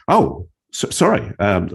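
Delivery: high, startled stammer; flustered surprise. Retold or imitated. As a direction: caught off guard, fumbling. Flustered reply to shock.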